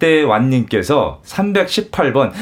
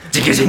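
guitar sound imitation. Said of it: "기타 딱 치기 전에 악센트가 들어오는".

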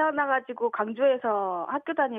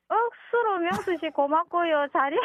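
bright Busan dialect thanks, pitched up; 4 semitones higher than usual. Shown as a demonstration. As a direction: say it in Busan dialect, a little higher. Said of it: "부산 사투리 뭡니까?".

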